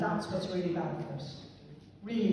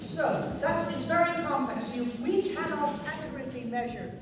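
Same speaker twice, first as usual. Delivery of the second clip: mouth full; 5 semitones higher than usual. Real, not acted. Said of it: "I'm gonna talk with my mouth full now".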